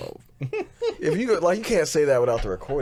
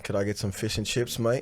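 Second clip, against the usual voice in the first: British accent; 4 dB quieter than usual. Shown as a demonstration. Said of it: "I can do a British accent".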